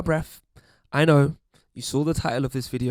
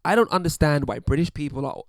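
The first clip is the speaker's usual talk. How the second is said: lightly put-on American accent; uncertain American accent. Mimicking online commenters baffled by Brits, shaky American accent. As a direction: attempt an American accent, not quite placed. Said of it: "I don't know what accent this is".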